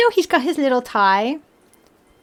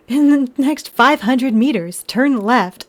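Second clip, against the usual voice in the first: robotic GPS voice; slower than usual. Retold or imitated. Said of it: "in that voice".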